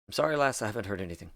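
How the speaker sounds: a lightly put-on Scottish burr; a bad Scottish accent for the barman. GM voicing the NPC in a bad Scottish accent. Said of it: "That's a bad accent".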